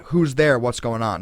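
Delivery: calling out to see who's in the yard; retold yell. Brother calls out from his bedroom window, a mock yell. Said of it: "he yells out".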